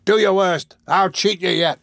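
high, loud defiance; desperate cry. A narrator's reading. Ruffian menacing the crowd from the window, desperate cry. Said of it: "cried the desperate ruffian".

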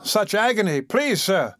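whining in fake pain; whimpering agony. Noah feigning agony.

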